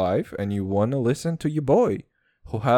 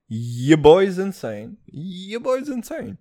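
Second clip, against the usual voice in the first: slow, high-pitched mock madness; hammed-up unhinged boast; mock crazy; 7 semitones higher, 4 dB louder, slower than usual. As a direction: stretch it out like you're losing it. Hams up going crazy.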